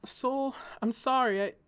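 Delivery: high, calling out across the garden. A narrator's reading. She calls out to her neighbor, calling. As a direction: call out to him, pleading. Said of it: "She called out to her neighbor".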